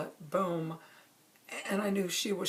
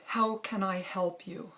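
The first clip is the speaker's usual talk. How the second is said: calm and gentle; slower than usual. Retold or imitated. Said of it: "keeping my energy calm and kind of smaller".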